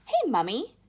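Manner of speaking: high, loud call to her mother; spoiled girl demanding attention; shout. Acted. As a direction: yell for Mummy across the room. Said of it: "shouted Veruca Salt suddenly".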